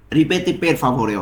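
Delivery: "ripeti per favore" drawn out word by word; slow teaching pace. Shown as a demonstration. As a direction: say it slowly for students to repeat. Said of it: "এর Italian কি হবে?".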